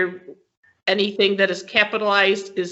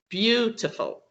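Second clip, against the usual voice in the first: "Beautiful" with "Beau" held longer than the rest; long first syllable; 4 dB quieter than usual. Shown as a demonstration. Teacher repeats the example for students, "Beautiful" with a lengthened first syllable. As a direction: lengthen the opening vowel of "Beautiful". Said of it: "It's a little longer than".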